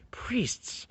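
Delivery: a sharp, breathy whisper of the one word; whispered answer. Acted. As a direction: whisper it like a dark secret. Whispered answer to rhetorical question.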